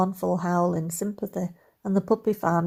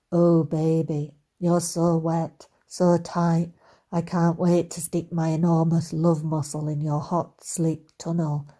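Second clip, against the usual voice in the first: seductive Scottish voice. Acted. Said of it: "the pitch of his voice dropped a whole octave".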